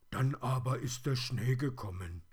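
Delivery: high, loud toy-bear voice; plush teddy. A narrator's reading. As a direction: tell it as a hard-done-by teddy.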